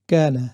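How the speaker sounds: কানা with a wide open first a, demo for students; teacher demo of কানা with an open mouth; mouth open on kana. Shown as a demonstration. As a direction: open the jaw and let the a of কানা ring. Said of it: "কানা যখন বলবেন মুখটা একটু খুলে দিবেন".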